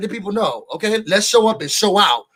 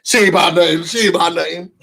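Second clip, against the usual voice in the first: nonchalant. Retold or imitated. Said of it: "Dre was so nonchalant".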